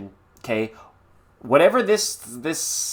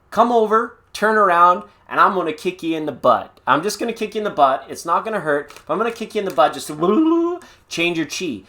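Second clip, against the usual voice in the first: playful tough-love friend; 5 semitones higher than usual. Retold or imitated. Friend on the phone ordered over, playfully bossy. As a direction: boss the stuck friend around, half joking. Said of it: "I'd be like".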